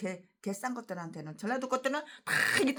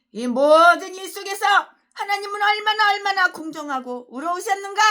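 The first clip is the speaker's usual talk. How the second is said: higher, louder pompous pulpit question; mocking preacher voice; 8 semitones higher, 9 dB louder than usual. Preacher parodying a rival pastor's sermon line, high mock solemn voice. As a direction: ape the pastor's grand rhetorical question. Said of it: "십오 절 말씀에".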